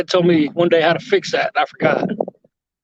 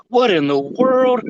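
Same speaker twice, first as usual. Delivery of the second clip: surprised; 6 semitones higher, slower than usual. Real, not acted. Reacting to a surprise donation.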